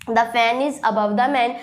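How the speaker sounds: each word slow and separate, dictating to a class; slow teacher dictation; slow model sentence. Shown as a demonstration. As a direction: spell it out slowly like a teacher. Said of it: "अब यहाँ man के ऊपर है ना".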